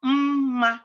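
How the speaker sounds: "Mma" with a long hummed first m before "ma"; every letter pronounced. Shown as a demonstration. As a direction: sound both m's in "Mma", lingering on the first. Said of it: "Every letter must be pronounced".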